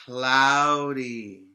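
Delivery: emphatic answer. Shown as a demonstration. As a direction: call out "Cloudy" for the class to echo. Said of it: "It's what?".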